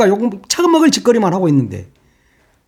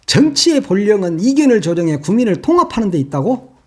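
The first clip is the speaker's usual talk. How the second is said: incredulous rising repeat of the quote; scornful echo. Retold or imitated. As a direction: throw his words back in disbelief. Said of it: "법학 개론 시간이냐". (어이없다는 듯 되묻기)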